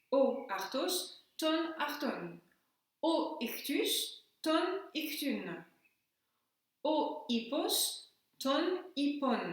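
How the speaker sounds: "O artos, ton arton" spelled out slowly, each article stressed; teacher drills nominative then accusative for pupils; slow Greek drill. Shown as a demonstration. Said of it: "Au niveau des articles".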